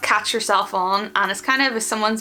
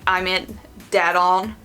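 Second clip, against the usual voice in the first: sarcastic; slower than usual. Shown as a demonstration. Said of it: "in a sarcastic way".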